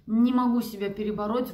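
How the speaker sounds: usual speaking voice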